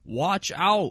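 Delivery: high, loud joking holler; mock warning shout. Co-host joking about a scary player's nickname, mock warning shout. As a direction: call it out like a mock alarm, on the edge of laughter.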